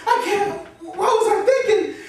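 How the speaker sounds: high-pitched breakdown with sobbing; crying. Acted. College student despairing alone over rejection, sobbing. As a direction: wail it out, overwhelmed and sobbing. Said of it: "Quit crying, little baby".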